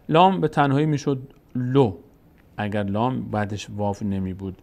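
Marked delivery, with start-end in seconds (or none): 1.5-1.9 "لو" as a short lo; brief o in "لو"; short vowel. Shown as a demonstration. Teacher showing lam alone, short "لو" as lo.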